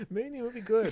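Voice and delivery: minion voice. Pretend. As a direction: try a minion voice. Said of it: "I need the pitch as well".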